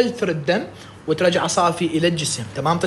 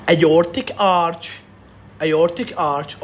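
spelled out slowly; much slower than usual. Shown as a demonstration. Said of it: "teacher spells out term slowly".

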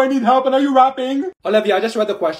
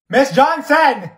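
slow, loud call of Miss Johnson; calling out louder; 4 semitones higher, 4 dB louder, much slower than usual. Acted. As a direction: call "Miss Johnson!" slowly and louder to get her attention. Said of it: "I have to say your name three times".

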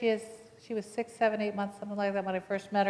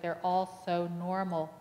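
tearful; slower than usual. Retold or imitated. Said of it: "She started crying".

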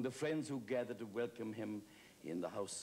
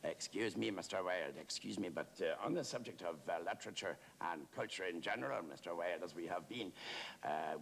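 lightly voiced eager, rambling questioner; a touch of fawning earnestness; deferential chatty admirer. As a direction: work up politely to a big question, with hesitations. Plays a talkative admirer questioning Wilde.

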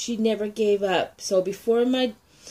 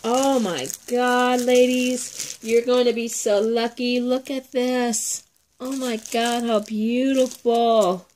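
louder and higher, gushing; excited; 4 semitones higher, 4 dB louder than usual. Real, not acted. Showing viewers the gift mixes: excited gushing. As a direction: gush over each pretty bag, slowing on the praise.

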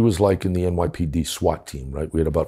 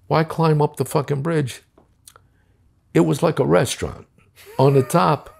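much higher, animated disbelief; amazed; 7 semitones higher than usual. Real, not acted. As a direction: build it up like you still can't believe it. Amazed retelling of rooftop breakfast.

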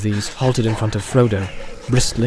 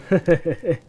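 teasing chuckle; 3 semitones higher than usual. Acted. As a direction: chuckle knowingly at an old offence. Farmer teasing about mushrooms.

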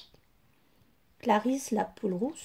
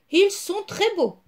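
high, bright compliment; delighted hen compliment; admiring praise; 7 semitones higher, 4 dB louder than usual. A narrator's reading. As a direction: praise them warmly. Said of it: "les félicita Clarisse".

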